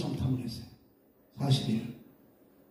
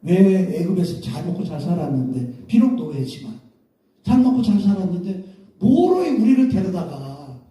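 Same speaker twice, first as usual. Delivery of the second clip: complaining. Retold or imitated. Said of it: "막 불평하는 거야".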